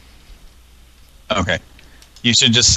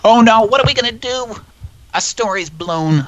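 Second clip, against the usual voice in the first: high, hammed-up alarm; mock panic; 13 semitones higher, 4 dB louder than usual. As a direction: play it like a foiled spy. Mock panic about blown cover.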